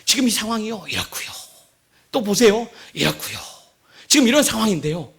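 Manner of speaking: lightly voiced persuasive adviser; Hushai. Hushai painting the picture for the king, measured. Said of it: "그 지금 후세는요".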